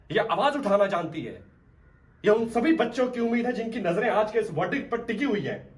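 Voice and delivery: rousing closing argument; impassioned courtroom plea. Acted. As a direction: build with conviction as you champion the girl. Lawyer's rousing plea for the girl.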